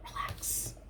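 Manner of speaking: breathy soothing whisper; calm them with a hush; whispered relax. Retold or imitated.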